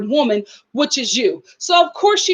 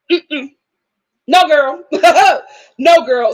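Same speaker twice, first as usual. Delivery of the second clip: sassy no; 2 semitones higher, 6 dB louder, slower than usual. Real, not acted. Vlogger loudly rejects the no-makeup look, laughing. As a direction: shake it off with friendly disapproval.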